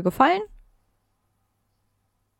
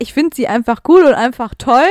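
mock quoting; 2 semitones higher, 10 dB louder than usual. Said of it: "Du hast gesagt".

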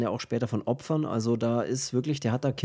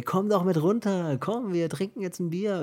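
higher, cheery party guest voice; party guests calling; 6 semitones higher than usual. Retold or imitated. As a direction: call him down like tipsy guests. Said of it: "dann kommen natürlich immer die Partygäste". (fröhlich rufende Partygäste)

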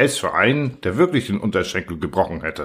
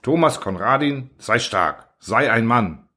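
solemn. Acted. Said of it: "nahm feierlich seine Hand und sagte".

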